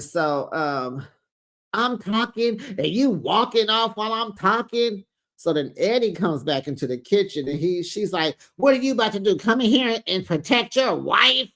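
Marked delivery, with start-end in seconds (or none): 1.7-5.1 higher-pitched mock offence at being ignored; indignant scolding. Acted mother scolding. 8.6-11.5 higher-pitched mock challenge; indignant demand. Acted demand to the husband.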